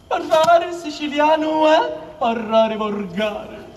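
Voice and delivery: slow solemn proclamation. Shown as a demonstration. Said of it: "La massima è questa".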